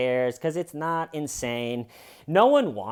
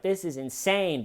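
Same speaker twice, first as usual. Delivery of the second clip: mild, higher-pitched mock outcry; fading outrage; 6 semitones higher than usual. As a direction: imitate her protest with less force behind it. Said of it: "slowly fading away".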